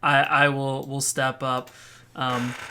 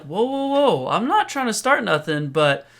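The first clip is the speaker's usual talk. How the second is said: raised, swaggering street talk; tough guy warning; 7 semitones higher, 4 dB louder than usual. Acted. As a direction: warn him off, cocky and high. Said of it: "I'm like".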